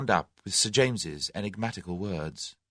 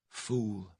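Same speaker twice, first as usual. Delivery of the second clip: murmured; 8 dB quieter than usual. A narrator's reading. Tuppence scolding her reflection, murmuring. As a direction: murmur it to yourself. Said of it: "murmured Tuppence at length".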